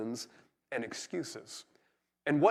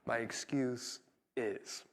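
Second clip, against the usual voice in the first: slow phrase demo; 3 semitones lower, 7 dB quieter, much slower than usual. Shown as a demonstration. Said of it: "get really comfortable with this phrase".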